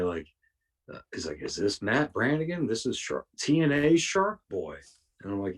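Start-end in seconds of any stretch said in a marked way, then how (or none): 1.4-4.8 mock formal voicemail. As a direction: read it like an overly formal caller. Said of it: "talking the exact same way".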